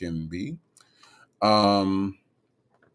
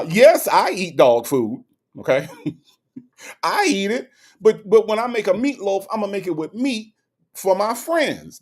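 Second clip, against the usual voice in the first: high, put-on voice with a laugh, much higher than her own; Gertie's voice; 9 semitones higher than usual. Reading Gertie's chat comment aloud in a high comic voice. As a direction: play Gertie, amused and defiant. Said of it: "she, she said".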